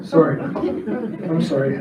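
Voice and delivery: slow, choked apology through a laugh; holding back tears, barely getting the words out; tearful apology. Real, not acted. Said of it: "I'm holding back the tears".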